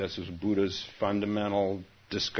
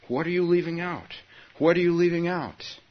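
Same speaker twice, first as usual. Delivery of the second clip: roaring voice; 10 semitones higher, 7 dB louder than usual. Acted.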